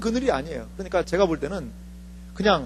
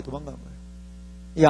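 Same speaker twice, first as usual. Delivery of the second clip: 도망간 거예요 said again softer and slower; soft slow repeat; 6 semitones lower, 7 dB quieter, slower than usual. Shown as a demonstration. Preacher repeating to the congregation, soft slow echo. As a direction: let 도망간 거예요 sink, quiet and slow.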